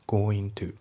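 going to said goin to; no g sound in going to; going to run together as goin-to; dropped g in going. Shown as a demonstration. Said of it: "goingのGが抜けますね".

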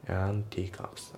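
slow "and teacups" as "an teacups"; dropped D. Shown as a demonstration. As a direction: leave the D out of "and teacups", slowly. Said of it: "andのDが抜けますね".

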